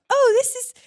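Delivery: imitated snail, starting high; snail character. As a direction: open high and explain as the snail. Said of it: "the snail's like".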